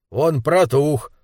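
slow, dug-in assertion; stubborn insistence. Acted. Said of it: "упрямился лысый мужчина". (упрямо, с растяжкой)

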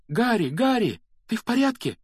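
put-on high, loud worried girl; alarmed calling out. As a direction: call out to a friend in high-pitched alarm. Hermione runs up, calling Harry.

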